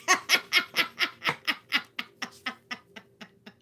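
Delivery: big high burst of laughter; loud cackling laugh at the card. Real, not acted. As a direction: crack up out loud.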